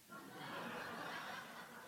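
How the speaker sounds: airy unvoiced chuckle; breathy laugh. Real, not acted. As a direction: let out a soft breathy laugh. Laugh after punchline.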